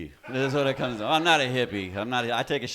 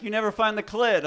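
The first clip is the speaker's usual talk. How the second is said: mock girlfriend complaint; 10 semitones higher, 5 dB louder than usual. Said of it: "She's like".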